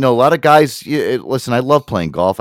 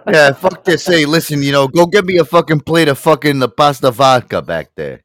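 higher, louder brash Italian-American demand; Italian-American guy; 5 semitones higher, 5 dB louder than usual. Acted. Mocking a typical Italian ordering pasta, brash Italian-American shout. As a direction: bark for pasta like a Jersey Italian. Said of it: "Typical Italian".

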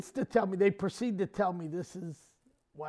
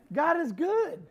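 higher, rising emphatic declaration; rousing church call; 7 semitones higher, slower than usual. Real, not acted. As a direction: call it out to rally the congregation. Repeats it to rally congregation.

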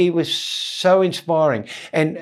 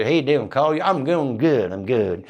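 put-on Southern US accent. Comedian showing how guys in Vietnam talked, light Southern American accent. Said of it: "guys who just talk like that".

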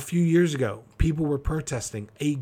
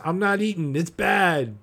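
mock protester; 5 semitones higher, 4 dB louder than usual. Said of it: "protesting around the courthouse".

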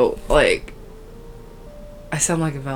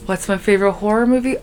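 press conference host; 3 semitones higher than usual. Pretend. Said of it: "pretend like I'm at a press conference".

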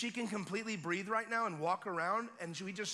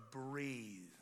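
stern command; 7 semitones lower, 4 dB quieter than usual. Retold or imitated. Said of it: "I went from nice Neo to".

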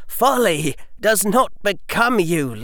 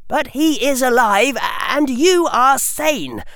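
forceful argument; 14 semitones higher than usual. A narrator's reading. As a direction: press the case harder and harder. Harry argues before council.

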